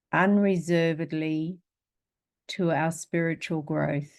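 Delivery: measured phrases with pauses for repeating; spoken dedication. Real, not acted. Teacher leading group in a dedication to repeat, measured recitation.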